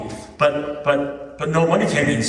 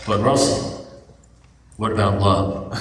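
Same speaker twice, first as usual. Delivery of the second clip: mock earnest protest; 4 semitones lower than usual. Lovestruck friend objecting.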